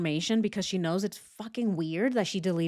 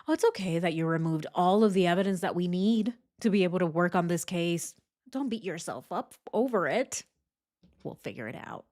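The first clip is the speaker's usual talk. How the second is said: sarcastic; 2 semitones lower, faster than usual. Retold or imitated. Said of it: "he says".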